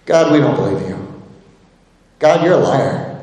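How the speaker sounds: low, understated accusation to God; people's disbelieving response. Acted. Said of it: "we see the people's response here".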